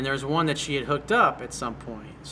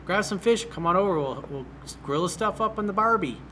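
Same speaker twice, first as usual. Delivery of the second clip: upbeat breezy invitation, pitched up; lightly higher, cheerful come-over pitch; casual invite; 5 semitones higher than usual. Shown as a demonstration. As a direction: sell it like an easy casual plan. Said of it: "you should be saying".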